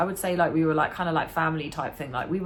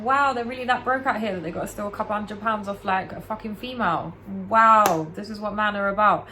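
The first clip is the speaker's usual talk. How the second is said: higher, scornful disbelief; incredulous scorn; 4 semitones higher than usual. Retold or imitated. About the boy who stole her money, scornful disbelief. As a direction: scoff at him like you can't believe it. Retelling a grime artist stealing money.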